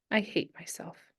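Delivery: a small, broken admission; shaky, tearful. Acted. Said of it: "Meg said shakily".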